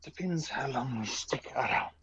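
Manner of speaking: exhausted character. Acted. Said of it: "exhausted, rather".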